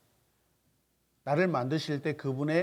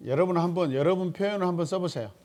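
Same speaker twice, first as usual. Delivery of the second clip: 표현을 stressed, voice higher and louder; louder urging to the class, 표현을 leaned on; emphatic louder call; 5 semitones higher, 5 dB louder, faster than usual. Real, not acted. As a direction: call out the instruction to the class with force. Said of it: "repeats instruction twice".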